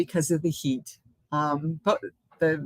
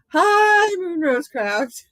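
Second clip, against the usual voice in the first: very high, loud, drawn-out "hi"; enthusiastic greeting; 12 semitones higher, 6 dB louder, much slower than usual. Real, not acted. Greeting a viewer she forgot to say hi to, enthusiastic. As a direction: sing out a big excited hello, slowly. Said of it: "not quite that enthusiastically".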